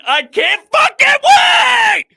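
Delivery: a high, loud, slow shout that peaks on wait; excited shout. Real, not acted. Fan before the Phillies opener, screaming with excitement. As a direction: let it burst out of you, scream it.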